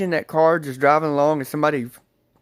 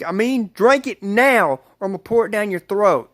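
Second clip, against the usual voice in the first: retold threat, a bit higher pitched; upset friend; 5 semitones higher than usual. Friend threatening to pour it down, upset. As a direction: imitate an upset friend laying down an order. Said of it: "she's getting really upset".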